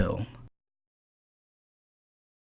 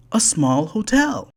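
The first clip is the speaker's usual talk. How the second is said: Fred's voice; 6 semitones higher than usual. A narrator's reading. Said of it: "said Fred".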